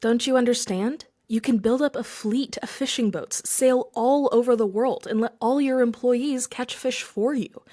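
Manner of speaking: exasperated, insisting at the fisherman; getting angry. Acted. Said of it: "The businessman was getting angry".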